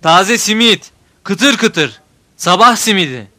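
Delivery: loud singsong street vendor cry; melodic street vendor shout. A narrator's reading. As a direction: call out fresh simit to the street. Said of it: "Cevat bağırıyor".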